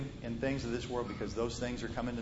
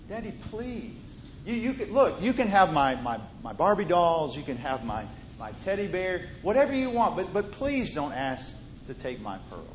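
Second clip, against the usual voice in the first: put-on pleading little girl; 3 semitones higher, 4 dB louder than usual. Girl pleads to keep pearls.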